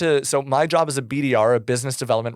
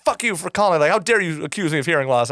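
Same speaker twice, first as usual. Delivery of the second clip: higher, offended mock rant; an offended customer yelling at the cold caller, mock outrage; 4 semitones higher than usual. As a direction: act out a caller's fake indignation. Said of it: "they would be like".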